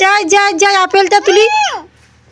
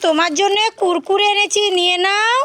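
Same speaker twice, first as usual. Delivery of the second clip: soft coaxing; 6 dB quieter than usual. Pretend. Coaxing the pretend-crying child.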